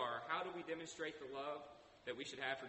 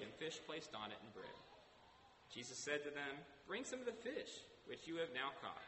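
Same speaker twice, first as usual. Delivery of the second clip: scripture reading. A narrator's reading. Resumes reading scripture aloud.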